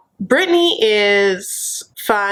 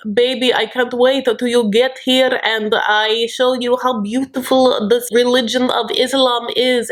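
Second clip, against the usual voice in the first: slow, higher-pitched mock suitor; imitating Yazin; 4 semitones higher than usual. Suitor courting online and pitching his religion, slow imitated voice. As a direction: woo her slowly, word by careful word. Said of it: "it's a lot of like".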